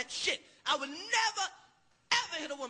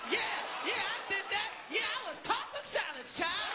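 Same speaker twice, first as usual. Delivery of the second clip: taunting woman yelling; 3 semitones higher than usual. Acted. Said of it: "She's like".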